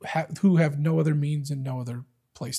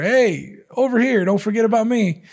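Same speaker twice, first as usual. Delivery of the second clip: put-on much higher, calling out as the old widow; 5 semitones higher, 3 dB louder than usual. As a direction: call across the room to catch his attention. Widow calling after the judge.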